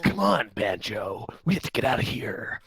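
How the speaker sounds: whispering. Acted. Quoting a character urgently.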